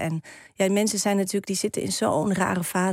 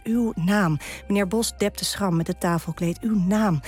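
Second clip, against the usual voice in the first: measured, deliberate poem recital; poem reading. Acted. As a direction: Dutch poem read with care. Reads her own poem aloud.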